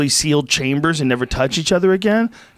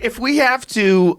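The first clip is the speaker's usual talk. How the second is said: slow, higher-pitched British movie voice; mock British accent; 8 semitones higher, slower than usual. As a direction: draw it out in a put-on British accent. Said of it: "would talk like British people".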